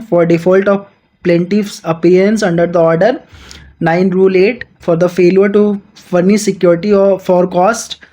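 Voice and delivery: slow, deliberate reading of the statute; measured textbook read-aloud; slow legal reading. Acted. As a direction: dictate each clause slowly to students. Reads the legal text aloud.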